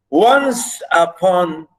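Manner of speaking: "once upon" slow, with "once" drawn out strongly; stress on first syllable. Shown as a demonstration. Teacher showing how to read trochaic verse, "once" stressed. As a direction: lean hard on "once", then ease into "upon". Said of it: "stress the".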